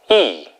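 "이" falling sharply; fourth tone. Shown as a demonstration. Teacher drilling fourth tone with students. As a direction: drop "이" hard. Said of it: "사성".

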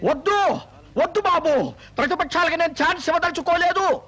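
urgent pleading call. Acted. Minister giving in to the jumper, calling up urgently. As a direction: call up to talk him down.

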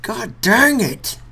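very high, very loud, slow raging scream; furious screaming. Real, not acted. Gamer raging after dying again, furious scream. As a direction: explode with rage at the game.

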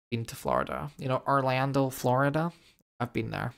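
a hint of an American accent on Florida; mock American accent. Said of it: "Don't know why I had to do that accent".

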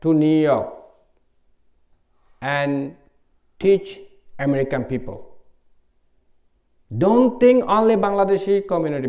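lightly voiced teacher giving earnest advice; teacher's advice. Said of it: "He said".

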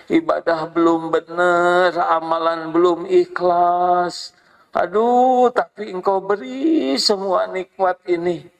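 half-sobbing through a humble prayer; tearful prayer. Acted. Believer confessing his sins to Allah, close to tears. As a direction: voice near tears, pleading to God. Maunya nangis aja.

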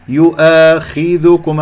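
slow يؤاخذكم with only slightly heavy خ; lowest-grade heaviness. Shown as a demonstration. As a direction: chant يؤاخذكم, keeping the خ at its least full. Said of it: "الخاء مفخمة مرتبة أخيرة". (تفخيم خفيف للخاء في يؤاخذكم)

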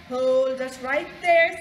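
loud, slow order to stop; storybook wolf calling a halt; commanding interruption. A narrator's reading. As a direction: cut in with a firm shout. Wolf cuts off the pig's threat.

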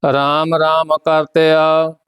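measured, even chanting of each verse; scripture recitation. Acted. Teacher recites the hymn for students, measured chant. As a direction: recite the hymn steadily, phrase by phrase.

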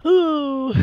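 a long ooh of inner niggling. Acted. Sammy with a niggle inside, long high ooh. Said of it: "had a niggling kind of just like".

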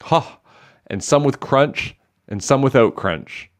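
laughing. A narrator's reading. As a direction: crow each item with amusement. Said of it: "the laughter beginning again".

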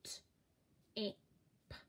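"T-I-P" sounded letter by letter, soft. Shown as a demonstration. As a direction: sound out "T-I-P" one sound at a time. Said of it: "Let's try again".

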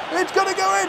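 high, eager, building shout; rising excitement. Real, not acted. Gamer watching the shot, rising excited call. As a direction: call it as it flies.

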